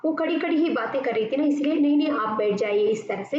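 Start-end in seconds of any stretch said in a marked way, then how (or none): 1.7-2.9 gentle, earnest please sit; polite insistence. Shown as a demonstration. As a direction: coax her to sit back down. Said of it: "इस अंदाज से कहती है".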